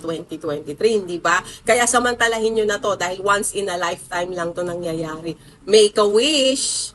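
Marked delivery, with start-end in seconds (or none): 5.6-6.9 drawn-out cheer. Real, not acted. Urging viewers at New Year.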